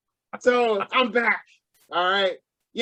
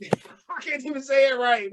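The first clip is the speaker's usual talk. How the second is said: laughing at himself; 2 semitones higher than usual. Real, not acted. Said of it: "I'm so excited".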